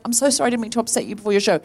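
very fast, hurried apology; retold apology. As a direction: rush through saying sorry. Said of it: "I apologized".

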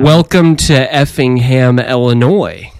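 slow, loud American English accent. Shown as a demonstration. Guest demos his English accent, comes out American English. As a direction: announce it in drawn-out American English. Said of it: "that's an American English accent".

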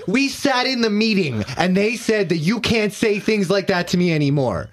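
very high, loud indignant whine; shrill complaint. Acted. Ian protesting to Pyotr, very high squeal. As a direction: squeal about the HR meeting.

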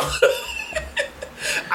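high-pitched, soft laughing fit; helpless high giggle. Real, not acted. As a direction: crack up in a high squeal of laughter. Cracking up at own story.

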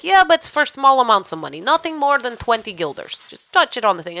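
imitation of an unbothered Dutch local; Dutch accent. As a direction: reassure them in a light Dutch accent. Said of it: "why my Dutch went Russian".

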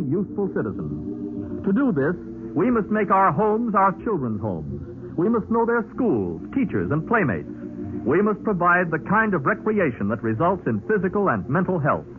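ordinary talk, nothing marked

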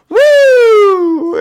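a very high, loud surfer whoop; surfer woo. Retold or imitated. Ex-meth user describing the high with a high, loud surfer woo. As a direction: let out a wild surfer cheer.

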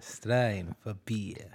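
low, soft Australian ad line; Australian accent. Acted. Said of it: "Australian accent is pretty cool too".

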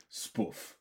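"spoof" with the short vowel of "put"; short-vowel pronunciation. Shown as a demonstration. Explaining the blokey slang, "spoof" said with a short vowel. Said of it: "a boy's blokey way of saying".

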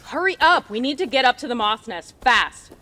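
urgent shout. Acted. Urging team.

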